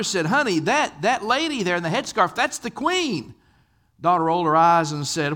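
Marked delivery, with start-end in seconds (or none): 0.2-3.3 excited. Retold or imitated.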